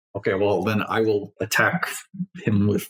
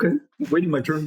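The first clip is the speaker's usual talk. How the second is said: villain waiting his turn; 8 semitones higher than usual. Acted. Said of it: "being like".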